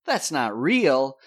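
disbelief. Retold or imitated. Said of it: "He just storms out there like".

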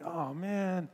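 a light mock of a sulking prophet; lightly voiced Jonah moaning that his plant is gone; pouting prophet. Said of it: "he's like the pouting prophet now".

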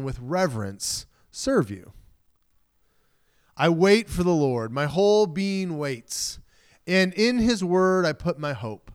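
measured, reverent psalm reading; scripture reading. Acted. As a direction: read it out like a prayer.

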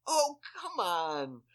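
high, loud, drawn-out groaning protest; exasperated plea. Retold or imitated. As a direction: stretch it out in retold exasperation. Retold exasperation at failed recognition.

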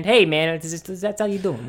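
rough Brooklyn accent, badly done; a weak attempt at a Brooklyn accent. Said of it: "I don't know how to do a Brooklyn accent".

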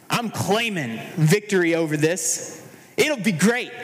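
imitating forced church positivity; putting on a brave face for the church crowd; mock cheery faith. Churchgoers pretending all is fine, mock upbeat. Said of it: "called to put on good faces".

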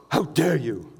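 mock-offended "How dare you", a touch affronted; indignant. Shown as a demonstration. Preacher demonstrates the word indignant with a lightly offended retort. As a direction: play it like someone clutching their pearls. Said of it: "indignant is this".

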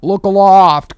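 high, loud alarm call; crying out. A narrator's reading. Starbuck alerting the crew to the flames, shouting. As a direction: make the crew look up. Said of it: "cried Starbuck".

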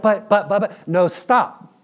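mock child whining; whining kid. Kid begging dad, high whiny stammer. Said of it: "And we're like".

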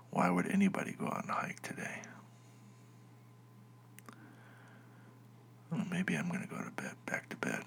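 soft hushed whisper, barely audible; quiet at night. Real, not acted. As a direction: keep it down so nobody wakes. Waiting quietly while wife sleeps.

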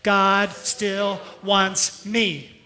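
"God" drawn out, whole line very slow; very slow repeat. Shown as a demonstration. Pastor repeats God still wants me very slowly for the church. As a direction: savour each word slowly. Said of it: "Would you say it with me?".

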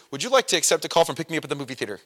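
fast, chipper operator voice; chipper 1950s ad. Retold or imitated. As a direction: rattle it off like an old ad. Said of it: "like, the old commercial".

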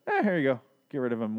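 imitating a careless brush-off; mock nonchalant. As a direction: toss it away like it's nothing. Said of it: "in such a nonchalant way".

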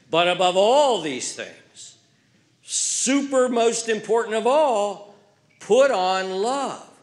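booming, drawn-out reading; proclaiming. Acted. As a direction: proclaim the verse slowly. Reading climactic verse.

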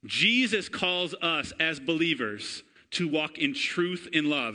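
ordinary delivery

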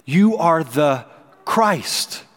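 four words, each spaced apart; slow deliberate proclamation. Shown as a demonstration. Peter answering Jesus, slow and weighty. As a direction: weigh every word. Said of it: "Four words".

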